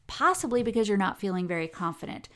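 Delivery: normal talking voice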